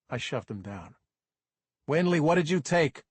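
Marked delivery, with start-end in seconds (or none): 1.9-3.0 stern demand. Acted. Cop questions the kid.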